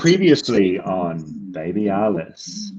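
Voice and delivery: put-on slow, even "previously on Baby Alice"; clean trailer read. Shown as a demonstration. A clean slow read of the show title. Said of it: "one clean read".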